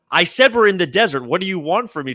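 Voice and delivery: mildly exasperated fighter insisting; insistent retort. Retold or imitated. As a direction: repeat it like he already told you. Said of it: "The guy goes".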